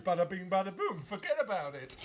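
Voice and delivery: hammed-up New York catchphrases; mock New York accent. Host riffing on the New York guests, mock New York accent. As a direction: put on a jokey New York wiseguy accent. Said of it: "A very New Yorkie".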